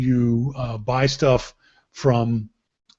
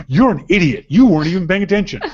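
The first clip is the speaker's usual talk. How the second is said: mock scolding; 3 semitones higher, 5 dB louder, faster than usual. Voicing wife scolding him.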